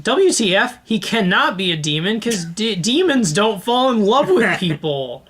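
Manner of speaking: high, disbelieving outrage; incredulous outburst. Retold or imitated. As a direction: scoff at the idea, high. Outraged retort to the medium.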